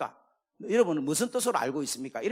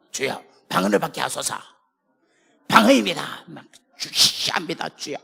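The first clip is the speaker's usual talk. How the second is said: loud, earnest plea for tongues; fervent prayer plea; 6 dB louder than usual. Retold or imitated. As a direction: plead loudly under the preacher's hands. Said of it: "안수 기도할 때 소원". (방언을 구하는 간절한 기도)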